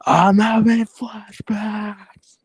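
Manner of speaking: breathy horrified whisper. Acted. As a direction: whisper it, haunted by memories.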